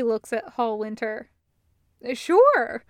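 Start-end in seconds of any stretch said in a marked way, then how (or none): 2.1-2.8 loud, higher, offhand agreement; Taco, casual. Acted. Taco agreeing to the arm check, loud and offhand. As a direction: toss it off like a tough guy. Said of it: "he says".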